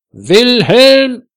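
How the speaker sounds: high, loud shout of a name; loud call. A narrator's reading. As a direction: yell to wake a sleeper. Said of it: "ruft sie laut".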